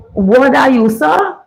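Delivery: Bajan accent, last word pitched high; attempted Bajan accent. Shown as a demonstration. Host tries reading a Bajan phrase, attempted Bajan accent. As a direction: have a go at Bajan, lifting the ending. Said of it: "well, me can't say talk Bajan".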